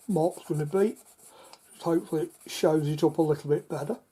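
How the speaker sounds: talking through hiccups; speech broken by hiccups. Real, not acted. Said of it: "I've got hiccups".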